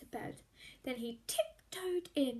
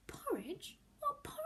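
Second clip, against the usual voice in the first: surprised; 8 semitones higher, 6 dB quieter than usual. A narrator's reading. Hannah voiced in story.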